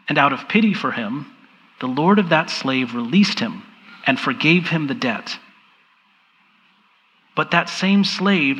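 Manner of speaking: measured reading aloud with long pauses; deliberate, reflective Bible reading; slow scripture reading. Real, not acted. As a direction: read it unhurriedly, letting each phrase land. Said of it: "I'm going to read it slowly".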